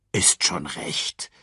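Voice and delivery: low, slow, friendly warthog; kindly. Acted. Warthog comforting the troubled cub, low friendly voice. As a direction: reassure him gently, low and slow. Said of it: "entgegnete Pumba freundlich".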